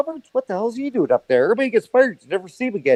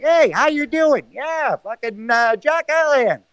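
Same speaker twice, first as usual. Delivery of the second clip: higher-pitched, lightly put-on character greeting; Tommy Boy; 4 semitones higher, slower than usual. Caller planning a bit as a movie character, lightly imitated. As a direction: do a light comic impression. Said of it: "we should get Tommy Boy".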